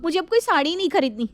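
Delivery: angry. Acted. Shalu tells her mother-in-law she wants no saree now, angry. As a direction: storm off in a huff, voice up. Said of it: "वो गुस्से में अपनी सास से कहती है".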